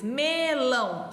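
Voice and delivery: Melão said slowly, me-lão; Melão drawn out for counting; counting syllables aloud. Shown as a demonstration. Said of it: "Eu abri minha boca duas vezes".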